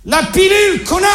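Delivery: put-on high-pitched outburst at the kid; exasperated insult. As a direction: throw the punchline out high. Punchline insult to his son. (insulte exaspérée, voix haut perchée)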